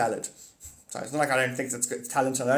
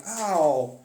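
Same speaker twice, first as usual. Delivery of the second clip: mock ow; 5 dB louder than usual. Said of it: "I'm like".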